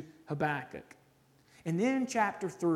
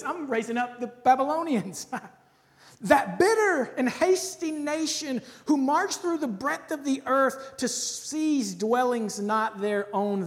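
commanding divine voice; 2 semitones higher, 3 dB louder than usual. Acted. Preacher reads God's reply to the prophet, proclaiming. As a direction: announce it like God thundering an answer.

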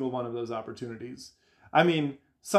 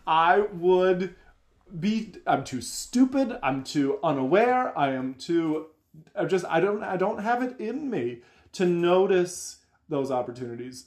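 lightly voiced flustered version of himself, higher; flustered self; 4 semitones higher than usual. Imitating his own helpless answer to a seeker, higher and mildly flustered. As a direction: fumble like someone caught unprepared. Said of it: "And I'd be like".

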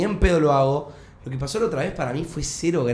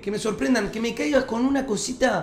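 more excited; 6 semitones higher than usual. Real, not acted. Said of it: "repeated with more emphasis".

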